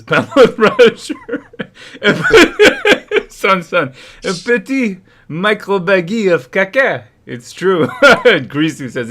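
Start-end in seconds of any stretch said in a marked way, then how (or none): 0.0-7.0 laughing. Real, not acted. Reading chat joke.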